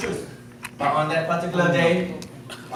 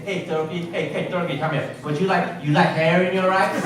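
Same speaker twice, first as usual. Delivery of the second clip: mock rude summons. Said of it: "you can say".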